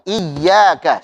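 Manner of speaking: "Iyyaka" with a pressed, thin doubled ya; ya tipis bertasydid. Shown as a demonstration. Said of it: "sambil kita tipiskan huruf ya-nya". ("Iyyaka" dengan ya ditekan dan ditipiskan)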